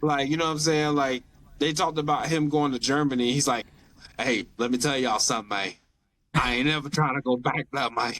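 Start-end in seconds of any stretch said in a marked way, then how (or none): 4.2-8.1 mild imitation of a thick Southern accent. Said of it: "the way he puts all his words together".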